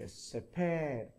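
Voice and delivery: '세페'의 '세'를 길게 끌기; '세페'의 강세 앞 모음을 늘여서. Shown as a demonstration. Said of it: "바로 앞 단어는 길게". ('세페'를 길게 발음)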